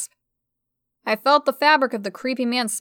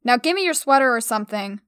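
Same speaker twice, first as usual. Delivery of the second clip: ordering. Acted. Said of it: "I ordered her".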